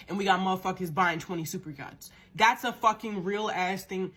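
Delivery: worked up and indignant, hitting the words; real, exasperated indignation; getting heated. Real, not acted. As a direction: say it with rising heat. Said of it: "I'm getting heated again".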